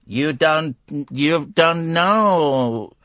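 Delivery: slow, drawn-out impression of a woman; imitated woman. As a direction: stretch the words right out, lightly imitating her. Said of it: "the woman saying".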